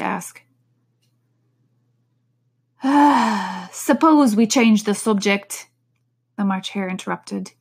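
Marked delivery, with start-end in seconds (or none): 2.8-3.7 weary sigh. Acted. 3.7-5.7 slow, yawning voice. Acted.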